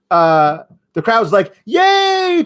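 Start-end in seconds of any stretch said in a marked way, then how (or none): 1.6-2.4 high, loud cheering crowd; mock crowd cheer. The crowd cheers the triple threat match, high and loud. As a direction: squeal hooray like a thrilled fan.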